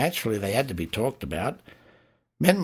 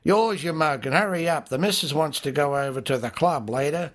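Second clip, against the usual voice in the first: pub drinker; 5 semitones higher than usual. Acted. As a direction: rib your mate and hurry him along. Pub banter, voiced drinker.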